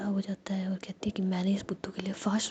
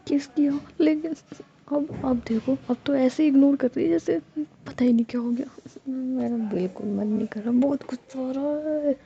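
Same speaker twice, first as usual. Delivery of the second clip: angry venting; 4 semitones higher, 5 dB louder than usual. Acted. Ruhi venting anger.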